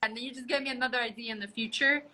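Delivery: audio cutting out, glitchy; choppy broken connection sound; corrupted glitchy audio. Real, not acted. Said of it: "your audio is cutting out".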